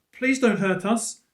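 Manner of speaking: put-on high, slow, loud pleading child; child's plea. Child in the bush begs Fred, high slow plea. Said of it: "the voice was definitely a child's".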